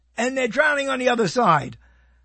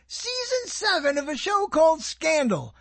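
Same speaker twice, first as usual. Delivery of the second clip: incredulous; 6 semitones higher than usual. Real, not acted. Amazed the show lasted so long.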